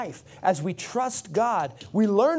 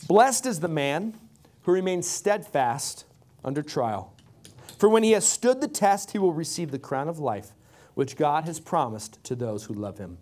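scripture reading; 3 semitones lower than usual. Acted. Reads scripture verse aloud.

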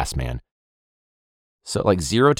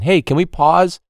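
raised, higher sideline call; calling to the ref; 5 semitones higher, 3 dB louder than usual. Retold or imitated. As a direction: project it across the field, asking. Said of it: "a simple request from me on the sideline".

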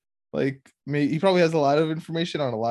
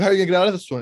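mock scream, raised and loud; retold scream; 5 semitones higher, 7 dB louder, much faster than usual. Podcaster acting out Dexter screaming at him, mock scream. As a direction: imitate an angry character screaming, pitched up and louder. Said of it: "when he screams at him".

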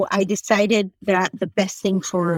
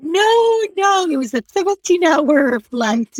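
exasperated correction; 8 semitones higher than usual. Retold or imitated. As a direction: set them straight, half laughing. Retelling her exasperated reply.

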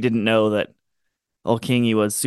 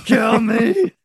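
desperate plea; 8 semitones higher, much slower than usual. Retold or imitated. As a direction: beg to die, shouting. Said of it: "he was like".

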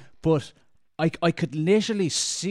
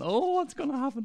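sharply higher, eager "what's gonna happen"; eager anticipation; 12 semitones higher than usual. Retold or imitated. Watching the maskless guy at the ferry, eager anticipation. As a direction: lean in, dying to see what happens next.

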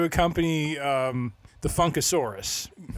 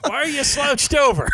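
playful shout; 11 semitones higher, 5 dB louder than usual. Real, not acted. Teasing shout at co-host.

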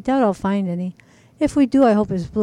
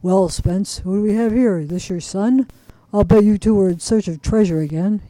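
a light hint of a gruff old man; barely roughen it like an old junkyard keeper; low gruff old man. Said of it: "in a low, gruff voice said".

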